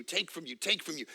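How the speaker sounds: dying echo of the phrase; fading echo. Real, not acted. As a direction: let the words drain away. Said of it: "echoed repetition fading".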